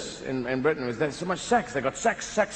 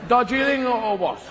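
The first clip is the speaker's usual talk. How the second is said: put-on English accent. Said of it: "Sort of an English Robin Hood".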